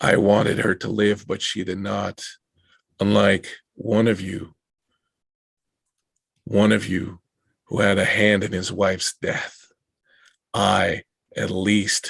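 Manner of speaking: echoing, reverberating ghostly voice coming from everywhere. Narrator voices the figure speaking at his wife's grave, reverberating, emanating. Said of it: "a voice that's kind of reverberating and kind of emanating".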